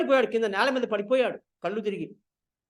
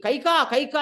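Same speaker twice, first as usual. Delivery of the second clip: a mild mock call of her name; calling loudly; 2 semitones higher, 3 dB louder than usual. King calling his angry wife, mild call. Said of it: "అని గట్టిగా అరిచారాయన".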